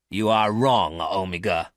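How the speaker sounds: loud, sharp rebuke; sharp retort. Acted. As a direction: snap back at the robot. Garth turns sharply, angry.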